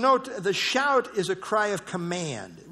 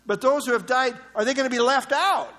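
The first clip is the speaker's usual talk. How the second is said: lightly acted anxious wondering, rising higher toward the question; imagined worried believers; 4 semitones higher than usual. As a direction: voice their concern, pitch climbing as it builds. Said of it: "in their minds they were thinking".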